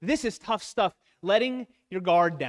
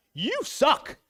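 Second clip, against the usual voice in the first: higher, blunt jokey jab; blunt guy friend; 8 semitones higher, 3 dB louder than usual. Retold or imitated. Speaker imitating a guy friend's blunt verdict, jokey and higher. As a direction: toss it off like a buddy ribbing you. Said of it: "'cause we're guys".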